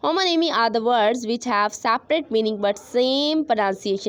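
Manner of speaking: very slow, word by word, for students to write; slow dictation. Shown as a demonstration. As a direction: read the definition out slowly like dictation. Teacher dictates definition. (धीमी आवाज़ में dictation)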